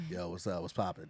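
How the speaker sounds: deep hood voice. Retold or imitated. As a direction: say it like a sleepy dude from the hood. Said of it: "why you sound like that".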